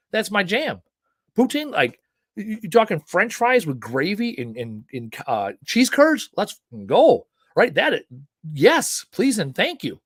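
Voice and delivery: can't contain the craving; delighted food gush; excited craving. Real, not acted. Gushing over poutine.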